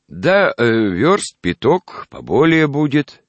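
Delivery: high, slow toothless mumble; very old man. Acted. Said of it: "прошамкал старик".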